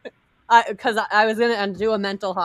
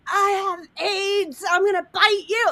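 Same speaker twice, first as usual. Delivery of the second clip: mock scream; 11 semitones higher than usual. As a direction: shriek it like you've lost your mind. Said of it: "like, screaming".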